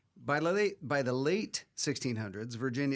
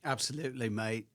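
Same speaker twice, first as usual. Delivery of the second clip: put-on a light working class British accent; a hint of Cockney British; mock British accent. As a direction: slip into a cheeky London accent. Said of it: "that accent".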